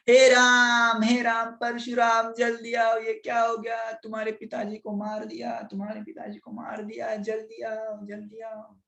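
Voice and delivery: wailing cry. Acted. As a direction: cry out for help, fading into distance. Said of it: "Renuka माता चिल्ला रही थी".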